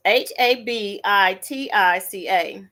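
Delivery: letter by letter again; spelling it out. Shown as a demonstration. Repeating the spelling for viewers. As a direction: spell H A B I T I C A out clearly. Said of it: "it's spelled".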